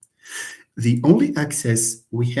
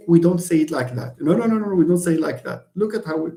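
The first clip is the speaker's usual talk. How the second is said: native speaker objecting; 4 semitones higher, faster than usual. Acted. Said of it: "or she can say".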